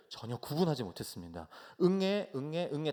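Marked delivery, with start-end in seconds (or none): 1.8-2.9 newborn's wah-wah, lifted higher and louder; baby cry. Retold or imitated. New father imitating his newborn daughter's crying, baby wail. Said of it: "다 응애로 들렸거든요".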